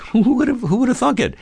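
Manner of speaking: mock amazed high falsetto. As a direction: squeak it out in disbelief. Mock folksy disbelief at Taliban return.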